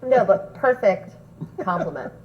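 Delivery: talking through a mouthful of food; words round a bite of peanuts; mouth full. Real, not acted. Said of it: "She's got a mouthful of food".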